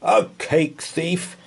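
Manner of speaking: a lightly voiced offended Roman; indignant Roman. Roman repeats the accusation, mildly indignant. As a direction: scoff at the charge.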